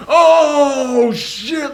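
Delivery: high mock scream, loud at the start; retold screaming. College kids all screaming at a freaky movie moment, high mock scream. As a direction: imitate a startled crowd screaming. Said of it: "all of them just screaming".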